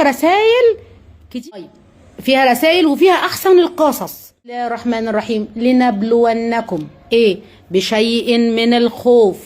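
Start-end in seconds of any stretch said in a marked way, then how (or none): 4.1-9.4 measured Quranic chant; Quran recitation. Acted. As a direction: draw out each word as in prayer. Reciting Quran verse slowly.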